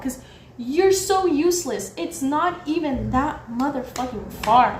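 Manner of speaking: indignant rant with emphatic bursts; getting heated. Retold or imitated. Berating the useless security guard, getting heated. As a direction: berate him, worked up in the retelling. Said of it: "heated as I'm telling this story".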